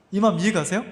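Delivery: ordinary talk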